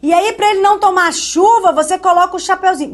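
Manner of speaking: mock a sweet old teacher explaining a silly trick. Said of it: "Tia Maricléia falava".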